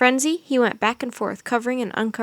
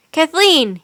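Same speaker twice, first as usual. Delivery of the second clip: higher and louder name, falling at the end; calling out; 5 semitones higher, 8 dB louder than usual. A narrator's reading. Teddy calls Kathleen from behind the columns. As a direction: call her out from hiding. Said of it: "he called".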